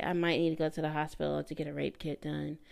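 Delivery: imitating someone casually dropping big news; mock casual. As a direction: toss it off as if trivial. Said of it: "how do you casually say".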